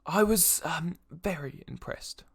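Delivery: lightly voiced noble, halting and slow; a hint of polite lord, weighing each phrase; courteous noble. Game master plays the noble.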